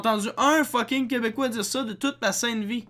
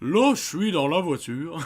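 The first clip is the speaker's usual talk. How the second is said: laughing mock Quebec try; 4 semitones lower than usual. Quebecer mocks Inoxtag's attempt, laughing, mild Quebec accent. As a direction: mimic the attempt through laughter, lightly. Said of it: "C'est ça".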